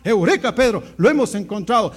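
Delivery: lightly acted urgent good news; excited announcement. Andrés tells Pedro of the Messiah, acted excitement. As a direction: punch the exclamation and press on eagerly.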